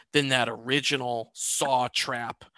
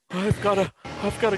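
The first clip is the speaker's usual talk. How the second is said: imitating a stricken man, pitched up; halting, higher mimicry of a man turning pale; David Attenborough; 6 semitones higher, faster than usual. Imitating the actor on the floor, stricken mimicry. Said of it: "He actually sounds like David Attenborough".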